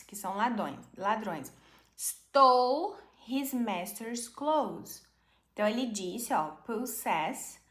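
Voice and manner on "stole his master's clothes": slow model reading. Shown as a demonstration. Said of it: "slow model reading".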